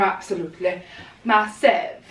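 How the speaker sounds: a hint of Welsh on a quick, low line; Welsh accent. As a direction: slip into a Welsh lilt. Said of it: "Don't know why I put a Welsh accent on then".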